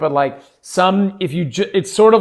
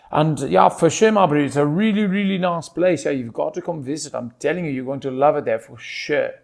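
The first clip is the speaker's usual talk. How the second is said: easy, chatty South African voice; South African accent. Shown as a demonstration. Pretoria local urging someone to visit, South African accent. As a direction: talk up your hometown as a South African. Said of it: "I'm just coming back to South African".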